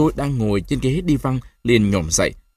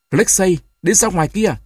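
grandfather's hoarse order, pitched up; hoarse command; 8 semitones higher, 3 dB louder than usual. A narrator's reading. Grandfather orders the boy out, hoarse. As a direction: rasp out the order to leave. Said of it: "nói giọng khàn khàn".

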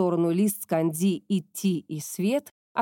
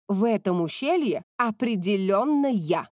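snorting. Acted. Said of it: "фыркнула та".

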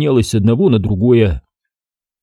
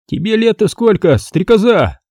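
teasing; 10 semitones higher than usual. A narrator's reading. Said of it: "поддел девчонку Парков".

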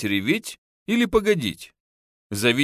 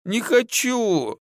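higher, slow whining refusal; whiny child; 9 semitones higher, much slower than usual. A narrator's reading. Son refusing to be taken away, whining. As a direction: drag it out like a sulky boy. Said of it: "закапризничал было сын".

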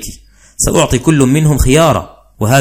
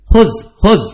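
mock offering; 9 semitones higher than usual. Husband offers himself to be hit.

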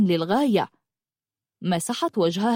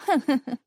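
short acted chuckle; brief amused boyish laugh; boy's laugh; 5 semitones higher than usual. A narrator's reading. Boy laughs about the barefoot princess, short chuckle. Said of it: "ضحك الغلام".

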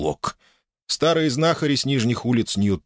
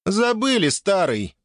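teasing; 12 semitones higher, slower than usual. Acted. Dragoness teasing laughing.

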